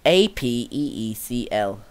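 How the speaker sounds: slow letter by letter; spelling it out slowly. Real, not acted. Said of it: "I can't even say that".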